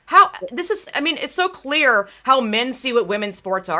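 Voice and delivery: imagined reaction to the podium photo, indignant; angry outburst. Retold or imitated. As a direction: fire it at whoever posted the photo. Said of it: "I'd be like".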